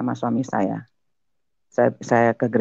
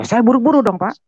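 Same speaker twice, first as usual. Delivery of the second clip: ordinary delivery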